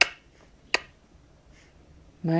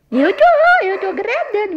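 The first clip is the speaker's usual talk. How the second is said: fast, louder, higher burst of delight; gleeful; 4 semitones higher, 4 dB louder, faster than usual. Real, not acted. Mother delighted the baby likes her talking, fast and bright. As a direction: rush it out, delighted. Mother pleased with baby's praise.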